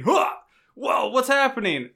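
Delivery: mock shock. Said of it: "our shocking intro".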